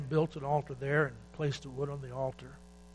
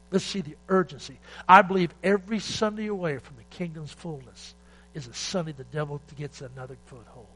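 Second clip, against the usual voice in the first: urgent preaching; 6 dB louder than usual. Real, not acted. Preacher urging the church.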